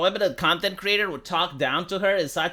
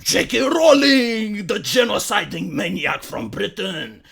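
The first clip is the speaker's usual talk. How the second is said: mock hysterical leftist. Vlogger parodying leftists outraged over Hogwarts, hysterical put-on voice. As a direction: rant like an alarmist activist. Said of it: "They were like".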